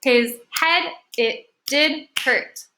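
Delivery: slow, each word separate; deliberate counting-out read; clapped-out syllables. Shown as a demonstration. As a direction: say it one syllable per beat. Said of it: "How many syllables did you hear?".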